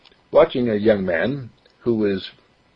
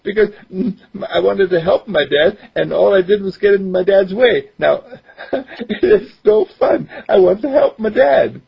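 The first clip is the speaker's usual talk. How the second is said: put-on higher boy's voice, eager; young boy voice; 10 semitones higher, 4 dB louder than usual. Boy explains he only got in dad's way, higher boyish voice. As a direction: voice a ten-year-old who wants to help. Mark speaks in story.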